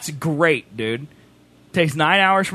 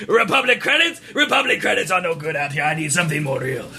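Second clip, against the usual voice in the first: Watto quote; 2 semitones lower than usual. Retold or imitated. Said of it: "quote that entire movie".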